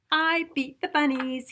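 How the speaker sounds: high, loud happy whoop; whooping farmer. A narrator's reading. Narrator to children, farmer whooping over beating bunnies. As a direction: whoop with victory. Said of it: "he whooped".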